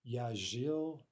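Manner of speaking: Я жил with stress on the stem, said carefully; careful teacher demo of жил; stress pattern demo. Shown as a demonstration. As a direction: model жил clearly for learners. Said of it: "watch the stress".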